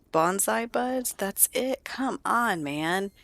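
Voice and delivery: high, incredulous complaint; disappointed disbelief. Acted. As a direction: protest a letdown of a gift. Brother let down by gift.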